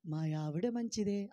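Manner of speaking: slow, deliberate model answer; slow, patient teaching voice; slow demo answer. Shown as a demonstration. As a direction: spell it out slowly for the congregation. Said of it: "అను".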